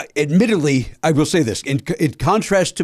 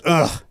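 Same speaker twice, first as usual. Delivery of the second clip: dismissive "ugh", imitated; disgusted grunt. Golfer brushes off an apology, disgusted grunt. Retold scornful response to apology.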